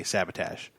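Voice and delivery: "sabotage" as SAB-uh-tazh; "sabotage" ending in tazh to rhyme with badge's vowel; Shatner's pronunciation. Shown as a demonstration. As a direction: say "sabotage" with a short, flat A at both ends. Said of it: "that that's how you sell, say".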